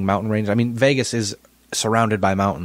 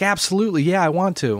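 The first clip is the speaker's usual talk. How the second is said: excited yes; 9 semitones higher than usual. Retold or imitated. Fiancée accepting proposal, quoted.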